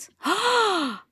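sharp horrified gasp; a big high shocked intake of breath; mock horrified gasp. Moms staring, shocked reaction.

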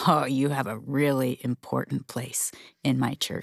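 gentle whisper as God. Acted. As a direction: breathe it like a tender secret. Voicing God's gentle reassurance.

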